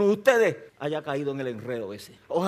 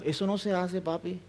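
1 soft parental scolding; 7 dB quieter than usual. Retold or imitated. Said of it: "le decimos".

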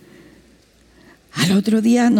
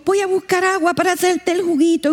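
pastor's wife; 7 semitones higher than usual. Retold or imitated. Pastor's wife voiced in story.

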